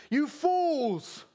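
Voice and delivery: high, drawn-out denunciation; stern rebuke. Acted. Jesus denouncing the Pharisees, high emphatic rebuke. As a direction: cry it out at the hypocrites.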